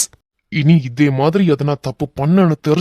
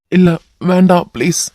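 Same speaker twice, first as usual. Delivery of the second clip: pleading, louder; desperate plea; 3 semitones higher, 5 dB louder than usual. Acted. Captive man begging the hero, desperate plea. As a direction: cry out to be spared.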